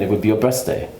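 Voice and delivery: "birthday" said with a German accent; German-accented English. Shown as a demonstration. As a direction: give "birthday" hard German consonants. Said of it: "if I was doing German".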